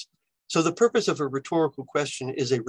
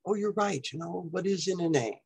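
mock reader realizing; 4 semitones higher, 6 dB quieter than usual. Shown as a demonstration. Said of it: "make hearers or readers realize something".

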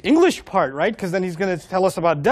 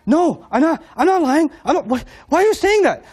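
anxious denial; 7 semitones higher than usual. Acted. Voicing Musa feeling accused.

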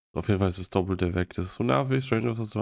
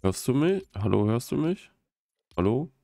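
calling from far away; 2 semitones higher, 4 dB louder than usual. Real, not acted. Mic check, friend can't hear.

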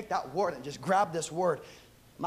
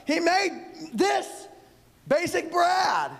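drawn out slowly; 10 semitones higher, much slower than usual. Acted.

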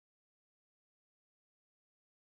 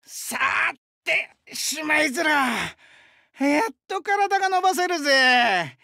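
relieved cheer; 5 semitones higher than usual. Acted. Wrestler done minding the shop, relieved cheer. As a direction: stretch the words out with the body. Shop shift over, stretching.

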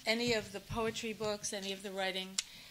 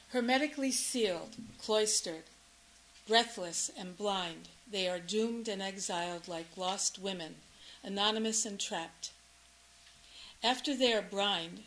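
deliberate recital, pausing between phrases; measured poetry-reading delivery; poem reading. Acted. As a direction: read it as a poem to an audience. Reads a poem aloud.

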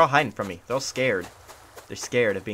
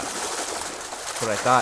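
drawn-out whisper; much slower than usual. Pretend. Taunting the caught fish.

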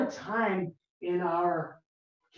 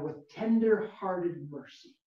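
read slowly; slower than usual. Shown as a demonstration. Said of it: "I'm gonna read it slowly".

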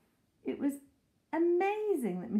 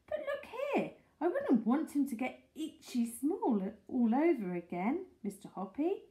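put-on fussy old lady; 5 semitones higher than usual. Mrs Silver worried.

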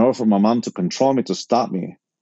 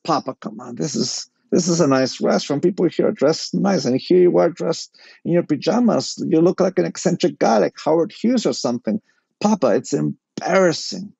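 higher-pitched pleading with a parent; embarrassed protest; 6 semitones higher than usual. Retold or imitated. Son to dad about pajamas in restaurant, exasperated plea. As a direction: plead like a mortified teenager.

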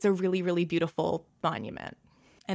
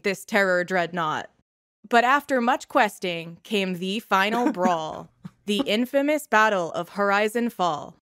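louder, measured rhyming recital; poem recitation; 4 semitones higher, 4 dB louder than usual. Acted. Brother reciting his heroic poem to the crowd, measured and grand. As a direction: recite the ballad with dramatic pauses.

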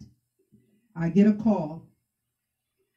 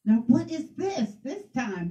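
retold upset husband; 2 semitones higher than usual. Husband complaining about early praying and noise, mildly upset. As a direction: imitate a fed-up spouse, without raising volume. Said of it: "like, freaking out 'cause he's like".

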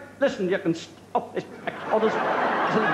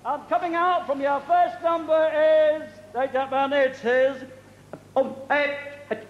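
bingo caller; 4 semitones higher than usual. Acted. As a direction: sing out the numbers to a hall of players. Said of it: "bingo caller this evening".

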